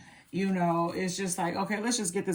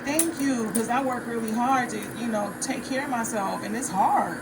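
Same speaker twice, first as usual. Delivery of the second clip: eager thanks; 3 semitones higher than usual. Retold or imitated. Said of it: "And I was like".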